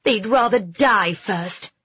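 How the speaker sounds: slow, emphatic indignation; a touch of girlish outrage; heated retort. Acted. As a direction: declare it with mild heat. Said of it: "Phoebe said hotly".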